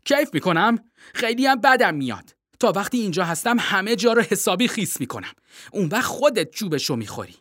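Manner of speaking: hammed-up furious penguin girl; penguin shouting. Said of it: "پنگوئن فریاد زد".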